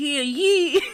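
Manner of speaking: put-on French accent. Speaker trying out how to do French in a chat about accents; fake French accent. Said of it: "That's exactly how you do French".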